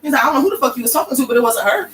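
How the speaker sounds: high, fast mock scoff; king's scornful dismissal. The king throwing out the dude's letters, high fast mock scorn. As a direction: brush off the forgery with contempt.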